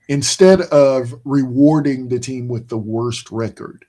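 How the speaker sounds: talking through a yawn; words stretched by a big yawn. Real, not acted. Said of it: "so I can't stop yawning".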